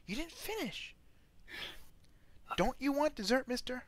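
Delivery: a prim lady fussing over a guest's dessert; wife character voice. Acted. GM as the wife to a leaving guest, a high fussy voice.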